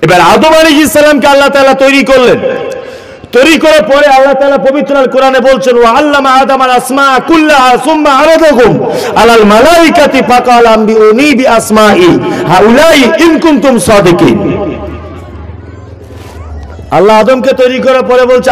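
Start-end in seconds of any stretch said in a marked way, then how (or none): 5.8-14.6 measured Arabic scripture recitation; Quran recitation. Acted. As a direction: recite the verse as a preacher quoting scripture.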